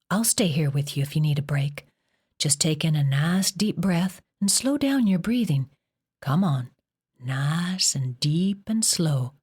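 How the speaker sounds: calm her breathing gently; soothing. Acted. Mother calming daughter's breathing.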